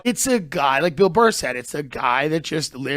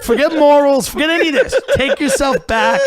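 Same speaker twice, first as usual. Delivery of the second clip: heated raised voice; 8 semitones higher, 6 dB louder than usual. Real, not acted. Heated point.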